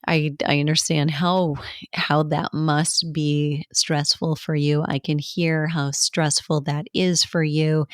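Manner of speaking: empathetic response. Shown as a demonstration. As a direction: reassure them gently. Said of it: "So you can say".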